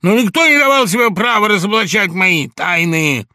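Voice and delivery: high, loud, heated protest; angry outburst. A narrator's reading. Laevsky lashing out at his friend, high and loud. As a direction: hurl it at him, offended.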